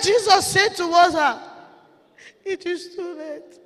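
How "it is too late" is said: very soft, slow pronouncement; grave verdict. Acted. Jesus answers the begging friend, hushed verdict. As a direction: drop to a hushed, slow finality.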